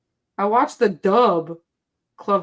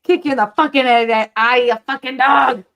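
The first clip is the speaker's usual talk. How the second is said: sassy, mouthy rant on request. Pretend. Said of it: "in your sassy voice".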